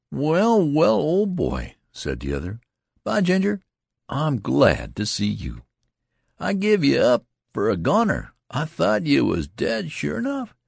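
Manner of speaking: overjoyed to find his friend alive; husky emotion. Acted. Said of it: "There was a husky emotion in his voice".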